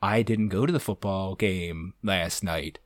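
low, soft, slow confession; quiet mock shame, drawn out; dawning mortification. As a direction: sink into a small, crushed admission. Retold horrified realization.

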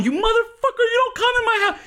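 very high, strained screech; screeching like a girl. Retold or imitated. Telling off a Marine in a high screech. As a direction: shriek it like a crying girl. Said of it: "you sound like you're crying".

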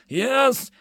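high, angry cry. Acted. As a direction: snap it out high, as an irate merchant. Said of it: "the red-faced merchant cried out".

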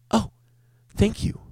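high squeaky shocked thanks; startled customer. Retold or imitated. Regular gets his second iced tea, high startled thanks. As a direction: play the regular floored by a free drink.

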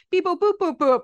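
high, loud beep boop robot noises. Retold or imitated. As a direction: sound like a bleeping robot. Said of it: "I was like".

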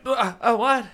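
high startled stammer; flustered surprise. Retold or imitated. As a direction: caught completely off guard. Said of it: "and I was like".

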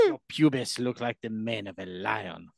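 mock French accent. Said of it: "I'll do it".

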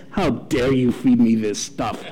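a lightly voiced, affronted little bulldog; offended dog. Pastor voicing the dog offended by vegetables, low and slow. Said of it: "just so offended by it".

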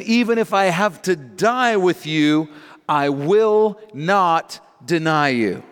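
insistent vow. Retold or imitated. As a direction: swear it emphatically. Peter insists he will not deny.

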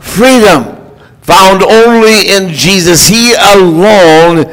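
emphatic pulpit prayer with weighted key words; proclaimed prayer. Real, not acted. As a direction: pray aloud for the congregation, declaring each phrase. Leads the congregation in prayer.

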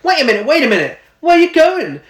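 high-pitched, excitable cartoon mouse kid; French mouse kid. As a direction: put on an interrupting little mouse voice. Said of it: "the French mouse kid who's like".

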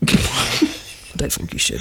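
slow, breathy laugh through the words. Real, not acted. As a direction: laugh it out slowly, teasing. Joking warning, laughing.

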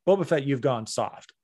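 easy, open-mouthed villain line, lightly voiced; Cad Bane as he should sound. Fan correcting the villain's delivery, calm and controlled. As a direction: say the threat calmly, teeth unclenched. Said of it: "that's not how you sound".

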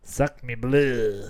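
slow put-on French accent; drawn-out mock French voice. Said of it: "You sound like".

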